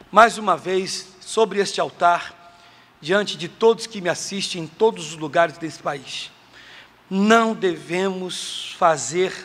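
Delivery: usual speaking voice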